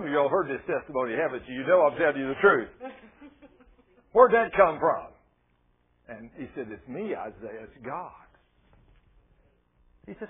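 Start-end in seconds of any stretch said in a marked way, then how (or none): 4.1-5.1 loud, slow, startled question; startled demand. Retold or imitated. Man startled by his own words, calling out loudly. Same reaction acted again, louder. 6.7-8.3 much softer, hushed answer; gentle voice of God. Retold or imitated. God making himself known to Isaiah, softly spoken.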